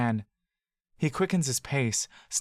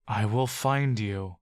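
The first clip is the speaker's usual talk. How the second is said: slow, lower, menacing; menacing promise; 3 semitones lower, slower than usual. Acted. Mister Senos vows to hunt Buck down, slow menace. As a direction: promise it like a threat.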